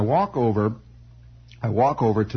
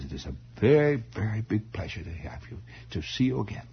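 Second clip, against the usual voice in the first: put-on dignified old aunt, light German accent; vague German accent; 5 dB quieter than usual. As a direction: greet him formally with a hint of German accent. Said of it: "they all had this vague German accent".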